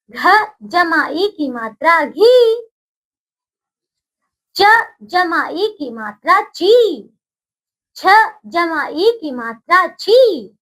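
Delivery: put-on slow, sing-song teacher chant for children to repeat; slow recitation drill. Shown as a demonstration. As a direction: drill each syllable slowly so the class can echo. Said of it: "बोलिए मेरे साथ आप".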